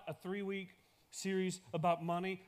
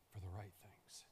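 whispered, trailing away; a whispered close to the refrain; 11 semitones lower, 17 dB quieter than usual. Acted. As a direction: breathe the last words to them. Softened end of the repeated refrain.

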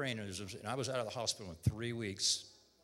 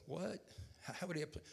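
incredulous; 5 semitones higher, 7 dB quieter than usual. Retold or imitated. Retold incredulous reply to nurse.

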